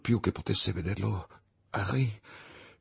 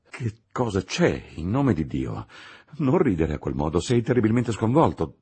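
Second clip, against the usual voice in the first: louder, pleading with worry; alarmed plea; 5 dB louder than usual. Acted. Clerval urging his frantic friend, louder and worried. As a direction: beg him to stop laughing. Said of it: "esclamò".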